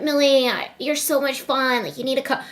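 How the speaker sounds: soft, hushed Sinner impression; a hint of Sinner, said quietly and soothingly; imitating Sinner. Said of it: "Sinner impression".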